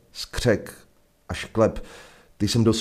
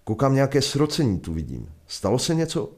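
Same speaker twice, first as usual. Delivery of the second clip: sheriff questioning; 6 semitones higher than usual. Acted. Sheriff questions the gathered crowd.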